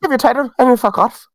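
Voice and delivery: put-on hurried, half-hearted Irish accent; bad Irish accent. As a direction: repeat the boss's line in a poor Irish accent. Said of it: "That was my worst Irish accent".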